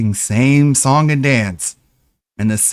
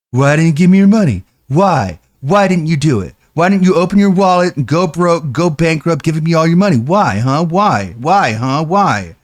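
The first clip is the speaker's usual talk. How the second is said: louder, repeated nagging demand; mock begging streamer; 4 semitones higher, 4 dB louder than usual. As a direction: nag over and over for money, half-hammed. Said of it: "cult-like repetition".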